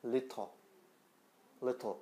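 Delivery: 리터 with a light tapped t; 리터 said close to 리러, a soft flap; 리터 repeated with the t softened to a flap; flapped t demo. Shown as a demonstration. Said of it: "이렇게 소리가 나게 된다는 점".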